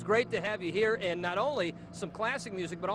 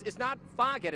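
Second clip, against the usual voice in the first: A band name said in a Boston accent; Boston-style band name, broad flat a; 4 semitones higher than usual. Shown as a demonstration. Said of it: "making fun of my Boston accent".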